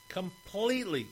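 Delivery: high, insistent "completely"; emphatic repeat. Real, not acted. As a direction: climb up on "completely". Repeating the word, rising each time.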